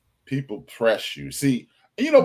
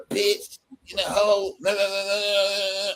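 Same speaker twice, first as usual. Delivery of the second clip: yelled insults; 4 semitones higher than usual. Retold or imitated. Women's world insults quoted.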